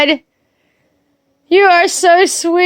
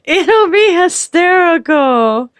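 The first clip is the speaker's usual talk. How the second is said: giggly quote; 4 semitones higher than usual. Retold or imitated. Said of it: "He's like".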